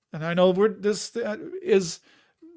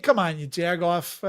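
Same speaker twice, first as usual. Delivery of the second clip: attempted Chicago accent. Shown as a demonstration. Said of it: "I'm reverting back".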